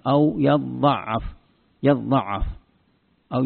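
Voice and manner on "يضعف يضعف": "يضعف" said yadda''af, slowly; word-form variant. Shown as a demonstration. Teacher shows another conjugation, "يضعف" as yadda''af. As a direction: open with ya and double the consonants in "يضعف". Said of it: "تصريف الكلمة".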